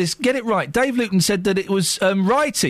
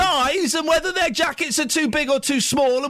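raised, higher-pitched argumentative voice; shouting over someone; 5 semitones higher than usual. Real, not acted. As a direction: shout down the caller without pausing. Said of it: "Don't you shout at me".

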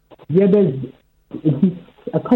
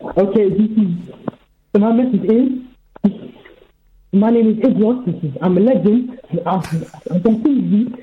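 muffled phone. Real, not acted. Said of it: "no idea what that was".

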